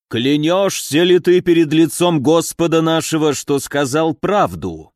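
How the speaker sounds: a solemn priestly question, slowing at the end; sonorous voice. Acted. The bishop makes the mercenary swear, solemn and resonant. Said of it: "спросил звучным голосом".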